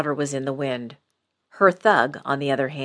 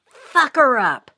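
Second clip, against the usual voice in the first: slow, much higher and louder shrill scream; 9 semitones higher, 7 dB louder, slower than usual. A narrator's reading. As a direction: shriek the order in triumph. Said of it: "she screamed at her boy toy".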